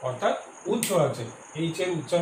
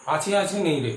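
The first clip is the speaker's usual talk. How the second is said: playful. Shown as a demonstration. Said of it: "একটু মজা করে যদি বলি".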